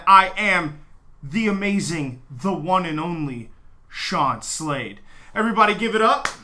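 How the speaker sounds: booming grandiose self-announcement; announcer voice. Pretend. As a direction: hype yourself like a ring announcer. Grandiose self-introduction, announcer style.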